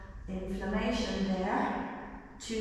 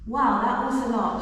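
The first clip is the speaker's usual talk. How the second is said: surprised exclamation; 3 semitones higher, 7 dB louder than usual. Real, not acted. Exclaims after intense stretch.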